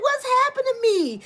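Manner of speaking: high panicked question; mock panic. Imitating viewers panicking about their skin. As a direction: act out alarm. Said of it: "Y'all was like".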